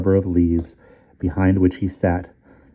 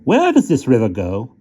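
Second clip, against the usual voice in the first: high toy soldier voice; 5 semitones higher, 4 dB louder than usual. Acted. Stumps voice.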